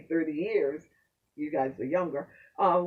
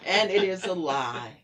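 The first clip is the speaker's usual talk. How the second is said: laughing; 5 dB louder than usual. Real, not acted. Host laughing as she agrees with her guest.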